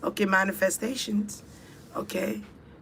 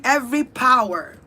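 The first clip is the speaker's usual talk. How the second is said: impassioned cry; 8 semitones higher, 3 dB louder than usual. Real, not acted. Calling on powers in ritual.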